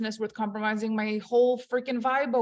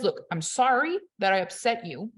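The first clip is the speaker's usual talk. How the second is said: fake apology. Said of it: "The power play is".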